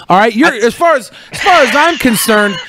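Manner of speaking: lightly hammed-up wrestler boast; mock wrestling promo. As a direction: talk trash like a ring promo. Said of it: "you just cut a promo".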